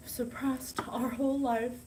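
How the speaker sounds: slow breathy aside, unvoiced; confiding whisper to the viewers. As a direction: let it slip out as a hushed secret.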